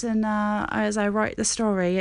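lightly affected British accent. Shown as a demonstration. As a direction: slip playfully into a British accent. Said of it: "talk to myself in a British accent".

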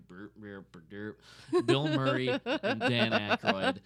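stammering through laughter; high laughing burst at the end; laughing stumble. Real, not acted.

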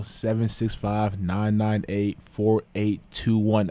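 slow, deliberate phone number; slow radio call-in number; slow number read-out. Real, not acted. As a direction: spell out the digits slowly for callers.

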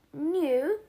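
sudden shrill cry of disbelief; shrieked. A narrator's reading. Aunt Petunia shrieks at Harry in disbelief. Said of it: "shrieked Aunt Petunia suddenly".

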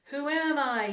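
high, loud shouted question; shouting. A narrator's reading. Slim testing the canyon echo, shouting. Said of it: "he shouted".

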